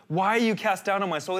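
mildly accusing, demand an answer of yourself; accusatory. Acted. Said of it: "there's an accusatory tone to his soul".

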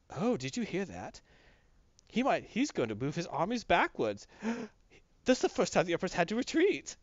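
whisper-gossip among the kings behind his back. Retold or imitated.

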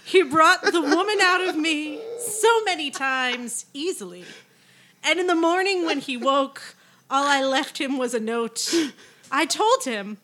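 reading lyrics with mock drama; dramatic reading. Shown as a demonstration. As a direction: recite it like a torch song. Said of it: "Please read the second verse".

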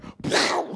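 explosive vocal whoosh; encounter sound effect. Shown as a demonstration. Preacher voices Moses appearing, whooshing sound effect. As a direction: make a sudden burst with the mouth. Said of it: "that's my encounter sound effect".

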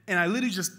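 half laughing, half sobbing as he relives it; breaking up while he tells it; retold crying laugh. Pastor telling the church how he broke down, laughing through tears. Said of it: "I'm just starting to lose it".

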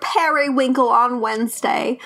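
badly faked Southern accent, slowing at the end. Joking to co-hosts with a bless-her-heart example, bad Southern accent. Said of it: "that's your Southern accent".

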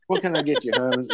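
lightly voiced diner waitress; a hint of a sweet diner server. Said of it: "At a restaurant".

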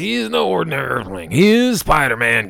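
high, loud villain declaring; villain naming his foe; Tinkerer voice. Acted. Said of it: "And the Tinkerer says".

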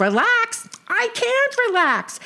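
mock panic. Sadie panics about husband.

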